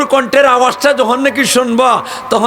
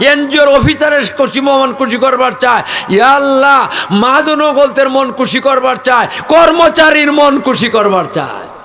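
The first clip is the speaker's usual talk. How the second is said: fiery preaching; 3 semitones higher than usual. Acted. Preacher scolding the crowd, building to shouts. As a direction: hammer the list harder and harder.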